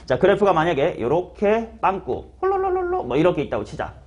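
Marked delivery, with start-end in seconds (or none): 2.4-3.0 rolling nonsense syllables; playful trilled doodle noise. Shown as a demonstration. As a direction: babble a wiggly line into being. Imitates squiggly line being drawn.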